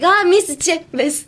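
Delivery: "miss, che, miss" run quickly after a high, loud "Ah"; fast, frustrated click. Shown as a demonstration. Learner making a mistake, "miss, che, miss" as a frustrated exclamation. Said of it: "you gotta do it really fast".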